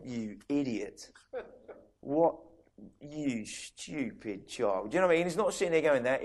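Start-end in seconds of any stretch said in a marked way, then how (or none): 0.0-4.9 God scolding. Retold or imitated. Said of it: "He doesn't start going".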